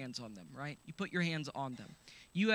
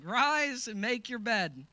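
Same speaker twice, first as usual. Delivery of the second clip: slow, louder command; the healing command again; proclaimed command; 4 semitones higher, 4 dB louder, slower than usual. Acted. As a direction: declare it with authority. Jesus' command repeated.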